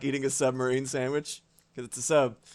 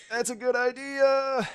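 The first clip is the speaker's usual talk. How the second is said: mock bot voice; 10 semitones higher than usual. Voicing a bot's reply.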